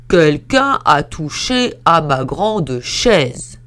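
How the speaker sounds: slow, loud, heavy papa bear; lumbering big bear, slowly booming. Acted. Big bear complains about his chair, in a slow booming voice. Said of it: "dit d'une grosse voix".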